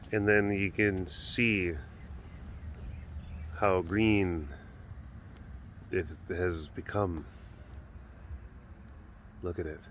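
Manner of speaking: slow, low, lingering wonder; quiet awe. Real, not acted. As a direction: take in the view slowly and softly. Admiring the green after rain.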